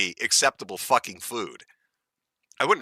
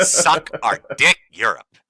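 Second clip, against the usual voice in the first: laughing taunt; 3 semitones higher, 7 dB louder, slower than usual. Real, not acted.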